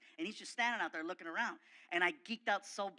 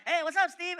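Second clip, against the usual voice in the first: nervous fan; 10 semitones higher, 8 dB louder than usual. Retold or imitated. Nervous star-struck greeting.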